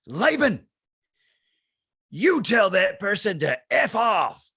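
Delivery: loud, slow, high emphatic command; retold shout. Retelling Steve's advice, a loud slow shout. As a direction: bellow the advice back at him, slowly.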